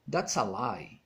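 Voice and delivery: "lie" dropping low in pitch; falling exclamation. Shown as a demonstration. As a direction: let "that's a lie" fall away. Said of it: "falling intonation".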